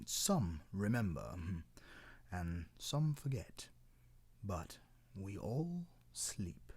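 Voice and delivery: put-on slow, plain-spoken old tree explaining; matter-of-fact. Cedar explains the world to cloud, slow matter-of-fact. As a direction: lay it out slowly like simple facts. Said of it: "in a very matter-of-fact voice".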